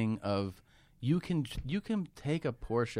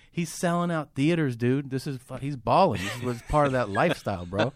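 hyped friend; 3 semitones higher, 4 dB louder than usual. Retold or imitated. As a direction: talk him up like a pumped buddy. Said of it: "that's when Joe jumped in. He was like".

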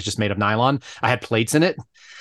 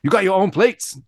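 higher-pitched mock Chinese accent; Lou; 7 semitones higher than usual. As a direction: put on a thick Chinese accent. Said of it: "he has the thickest Chinese accent".

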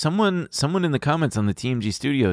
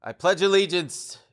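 slow, higher formal pledge reading; solemn recitation; 10 semitones higher than usual. Shown as a demonstration. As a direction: recite it like an oath at a ceremony. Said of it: "You remember in school they made us do this?".

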